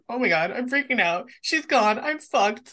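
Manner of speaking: mild mock panic; freaking out. Fan retelling Darrow's panic when she leaves, mock freaking out. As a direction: imitate someone starting to freak out, building a little. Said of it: "like, freaking the fuck out".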